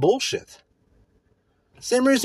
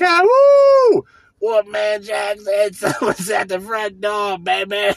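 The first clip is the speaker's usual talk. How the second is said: playful jive DJ voice, pitched way up; Wolfman Jack impression; 4 dB louder, slower than usual. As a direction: stretch it out like a wild late-night DJ. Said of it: "it's like".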